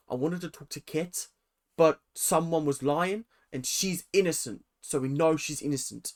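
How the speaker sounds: put-on poorly done New Zealand accent; a weak attempt at a New Zealand accent; bad New Zealand accent. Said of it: "the worst New Zealand accent in the world".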